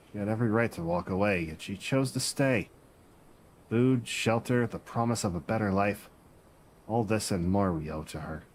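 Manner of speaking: lightly voiced pirate, rolling and dramatic; slight pirate voice. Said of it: "talking like a slight pirate".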